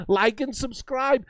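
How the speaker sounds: slow, drawn-out sarcastic like and subscribe; mocking plea. Streamer mocking YouTubers to his chat, slow sarcastic drawl. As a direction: drag it out like a begging YouTuber.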